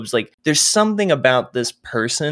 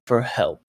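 "help" set apart slowly, as if in quotation marks; air quotes on help; 3 dB quieter than usual. Acted. Cellmate doubting a half-breed's offer, slow quoted stress on "help". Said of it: "does, like, the air quotations as he says".

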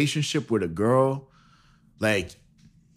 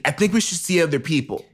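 nagging wife; 4 semitones higher than usual. Pretend. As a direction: say it like the fed-up wife. First take of the line.

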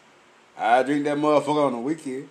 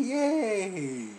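laughing; 4 semitones higher, 7 dB quieter than usual. Retold or imitated. Fake cheer, laughing.

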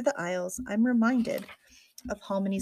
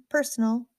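"Personal" lifted higher, as an unsure question; 4 semitones higher, 3 dB louder than usual. A narrator's reading. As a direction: answer "Personal" as if asking whether that's right. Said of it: "it like a question".

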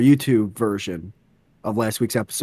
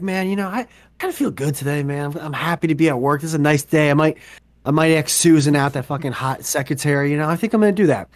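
lightly acted cheerful young worker; feeling good; 2 semitones higher, faster than usual. YouTube kid musing happily at his desk, feeling good. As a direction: play a kid pleased with his morning at work. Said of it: "he's feeling good".

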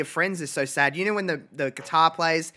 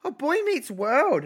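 excited recognition; 10 semitones higher, slower than usual. Real, not acted. Delighted recognition of favourite show.

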